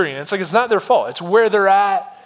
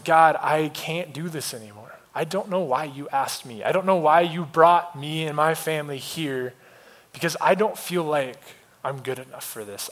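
desperate prayer; 2 semitones lower, 3 dB quieter than usual. Retold or imitated. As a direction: retell a worn-out confession in prayer. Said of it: "I just need to pray".

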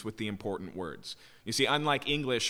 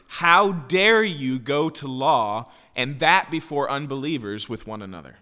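shocked; 2 semitones higher, 8 dB louder than usual. Acted. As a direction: hit it hard, as if you cannot believe it. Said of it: "He's shocked".

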